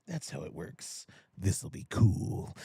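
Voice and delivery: slow whispered aside; mock-conspiratorial whisper; whispered scheme. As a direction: whisper it like a sneaky plan, slowly. Voicing the hero's scheming aside.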